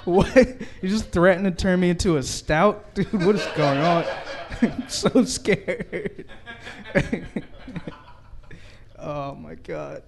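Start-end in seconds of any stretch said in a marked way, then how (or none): 0.0-4.0 mock disbelief. Real, not acted. Comic disbelief at a threat. 4.6-6.2 slow, laughing mock fright; sarcastic fear. Mock fear after the threat.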